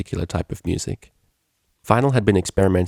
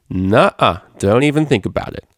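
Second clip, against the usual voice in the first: mock stern; 3 semitones higher, 4 dB louder than usual. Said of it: "Vinyl tried to maintain a stern gaze".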